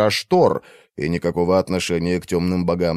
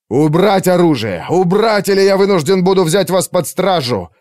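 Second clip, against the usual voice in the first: much higher, louder stern order; commanding shout; 8 semitones higher, 4 dB louder than usual. Acted. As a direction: threaten arrest at full voice. Arthur orders weapons down. (Артур грозно приказывает убрать оружие)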